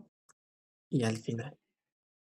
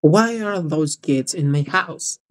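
slow echo; 3 semitones lower, slower than usual. Shown as a demonstration. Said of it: "teacher echoes".

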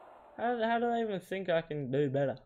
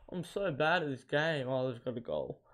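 ordinary talk

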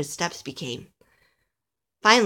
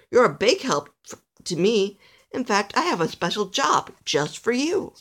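slightly raised, emphatic praise; encouraging old elf; 3 semitones higher than usual. Acted. Old elf offering Alistair a job, encouraging. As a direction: build up the little helper.

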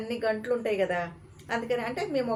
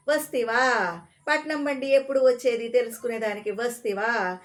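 louder, contemptuous rebuke; angry scolding; 2 semitones higher, 4 dB louder than usual. Acted. Ticket clerk rebuking Parvateesam for asking again, louder with contempt. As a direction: scold him for having no sense. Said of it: "అని ఆరంభించాడు".

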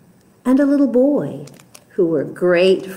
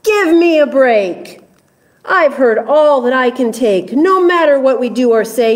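lion roaring; 3 semitones higher, 3 dB louder, faster than usual. Acted. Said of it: "Lion roared back".

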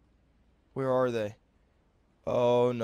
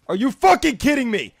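quick, incredulous raised voice; angry outburst; faster than usual. Real, not acted. Player mad at another's move, angry outburst. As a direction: fire it out fast in outrage. Outburst, later repeated low.

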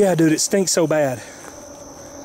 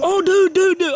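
startled; 12 semitones higher than usual. Real, not acted. Finds blood on his hand.

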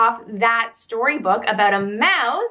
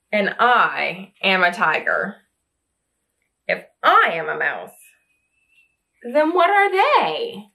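low, proud tiger voice; a big tiger insisting he is a tiger; 5 semitones lower than usual. Acted. Tiger character in picture book.

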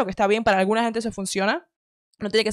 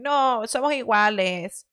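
mocking quote; much slower than usual. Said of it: "dirían".

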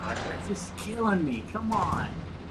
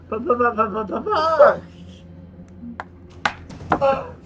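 loud mock death sputter; sputtering babble; 5 semitones higher, 4 dB louder than usual. Reader ending the dying note, hammed-up sputter. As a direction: sputter out a run of nonsense syllables.

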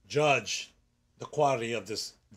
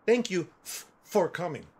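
stuttering voice; 2 semitones higher than usual. Retold or imitated. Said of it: "That's how I talk".

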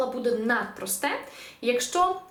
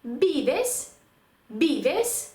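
«Vives» modelled as BI-bes, pitched up; penultimate stress; 3 semitones higher than usual. Shown as a demonstration. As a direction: stress the first syllable of «Vives». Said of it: "наголос падає на передостанній склад".

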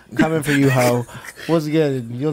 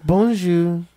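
lightly put-on dainty Princess voice, half laughing; imitating Princess; 3 semitones higher than usual. Ebony imitates Princess for her friends, dainty and half laughing. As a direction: play Princess, tapping along and giggling. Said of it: "give us your Princess".

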